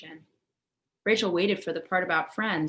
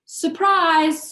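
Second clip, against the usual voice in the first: high, loud nervous squeak; 10 semitones higher, 11 dB louder than usual. A narrator's reading. Rachel greets her parents over the mess, high nervous squeak. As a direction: squeak it out, trying to smile. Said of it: "squeaked Rachel".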